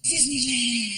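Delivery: put-on high eager kid calling out; excited kid. Frankie calling Gabriel to the TV ad, high eager kid voice. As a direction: point it out like an excited boy. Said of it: "He goes".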